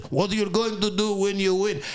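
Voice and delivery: put-on Russian accent. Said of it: "Vlad said it like this".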